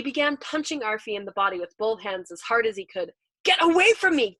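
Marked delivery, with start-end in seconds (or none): 3.4-4.4 high, very loud shout; frantic scream. A narrator's reading. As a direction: scream to drive him away. Punching him, driving him away.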